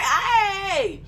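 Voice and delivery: high laughing hey; bright hype greeting. Shown as a demonstration. Creator opening a video, high and laughing. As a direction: burst in with energy. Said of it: "if you come on there".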